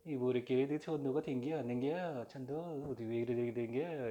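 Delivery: Pyongan dialect. Retold or imitated. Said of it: "평안도 그러면".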